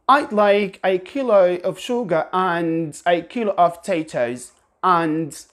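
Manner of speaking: sentence in a British accent, open A in and. Shown as a demonstration. Teacher reads an example sentence in a British accent. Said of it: "they would pronounce it this way".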